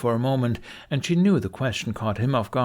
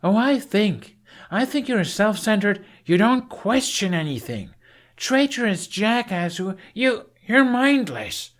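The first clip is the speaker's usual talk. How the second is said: much higher, louder, sputtering insults; angry tirade; 12 semitones higher, 4 dB louder than usual. A narrator's reading. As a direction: hurl the insults, tripping over them. Shouting match with Hiccup.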